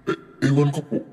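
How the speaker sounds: high, meek answer; flustered servant pleading ignorance; timid maid. A narrator's reading. Maid answering her angry employer, nervous.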